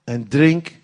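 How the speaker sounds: loud, booming invitation; God's call. Acted. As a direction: call them in with full force. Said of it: "dan zegt hij". (luide goddelijke roep)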